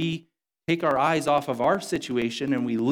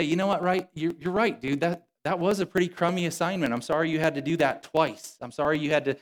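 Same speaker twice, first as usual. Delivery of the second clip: higher, overly consoling pretend God voice; mock sympathetic God; 3 semitones higher than usual. God as the preacher imagines him comforting a prophet, mock apologetic. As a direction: coddle him like a buddy who's sorry. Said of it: "He doesn't say".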